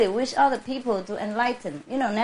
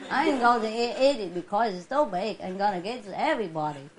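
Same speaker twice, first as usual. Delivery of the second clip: lightly mimicked folksy neighbor; playful imitation of neighborly small talk; neighbor impression. Speaker plays a neighbor sharing a big fish, folksy impression. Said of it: "I talk like the people, the neighbors".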